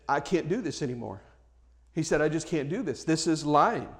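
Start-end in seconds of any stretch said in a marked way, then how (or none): 0.1-1.2 soft, low-key confession of conscience; quiet, sincere I can't go on; quiet refusal. Retold or imitated. Young man refuses to lie. 2.2-3.9 soft, low-key confession of conscience; quiet, sincere I can't go on; quiet refusal. Retold or imitated. Young man refuses to lie.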